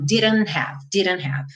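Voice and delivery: DIDN'T HAVE with N running into "have"; American linked "didn't have". Shown as a demonstration. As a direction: drop the T, join "didn't have". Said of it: "eu já juntei o N no have".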